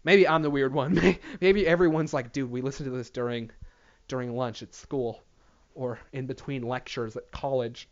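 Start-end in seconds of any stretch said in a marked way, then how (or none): 2.3-7.9 lower, softer imitated reply; understated listener quote. Imagined listener explaining when they listen, low and subdued.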